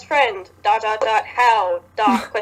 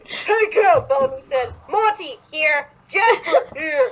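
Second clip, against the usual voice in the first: calling out; 6 semitones higher, slower than usual. Acted. Calling friends into cave.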